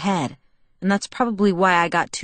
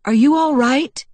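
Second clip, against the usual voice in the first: concern; 7 semitones higher, 7 dB louder than usual. Acted. Edward sees her fall.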